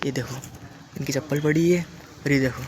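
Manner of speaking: hushed, keeping the voice down; speaking quietly. Real, not acted. Vlogger near the mosque, keeping his voice down so the imam isn't disturbed. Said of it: "मैं धीरे बोल रहा हूँ".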